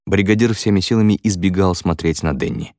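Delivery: ordinary talk, nothing marked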